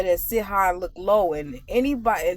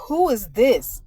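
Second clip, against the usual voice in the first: mock curt demand; 2 semitones higher, 3 dB louder, slower than usual. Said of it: "you like".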